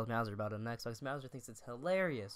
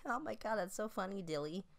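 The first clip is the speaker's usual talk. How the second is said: high-pitched imitation of a gushing sister; amused sister; 7 semitones higher than usual. His sister reacting to the photo, high mock voice.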